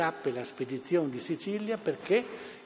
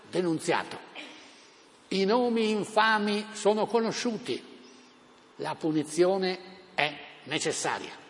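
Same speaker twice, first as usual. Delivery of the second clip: town crier; 2 semitones higher than usual. Retold or imitated. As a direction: thunder it to the crowd. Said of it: "È lui, D'Annunzio".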